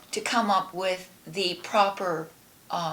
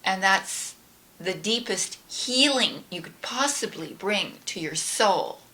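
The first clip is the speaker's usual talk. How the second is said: guided prayer. Acted. Leads a gratitude prayer.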